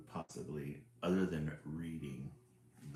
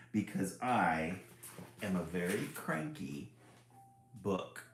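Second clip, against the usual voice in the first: cranky book. Acted. Book warning the reader off, grumpy. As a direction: scold the reader as a grouchy book.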